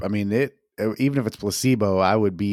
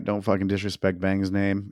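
ordinary delivery

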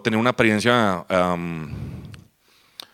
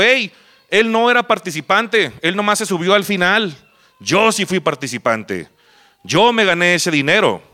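raised-pitch protest, easing then rising; indignant objection; 6 semitones higher than usual. Retold or imitated. Losing contestant disputing the winner, indignant protest. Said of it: "tiene una objeción y se levanta diciendo".

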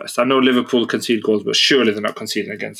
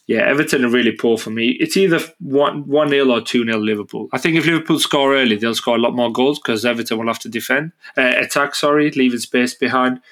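nasal voice. Real, not acted. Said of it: "I sound a bit nasally".

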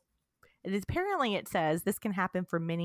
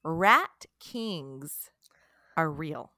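whisper; much slower than usual. Acted. Whispered spooky fact reveal.

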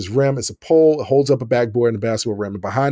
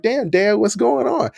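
mild protest; 8 semitones higher than usual. Retold or imitated. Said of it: "I was like".

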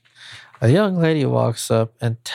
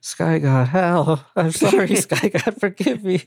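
higher, pleading caveman; 5 semitones higher than usual. Acted. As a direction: beg the sky god like a caveman. Caveman begs sky god.

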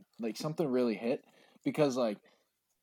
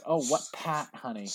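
lightly mock her R-less Boston speech; exaggerated Boston accent. Drunk lady quizzing the man from Boston, exaggerated Boston accent. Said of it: "she really started exaggerating the accent".

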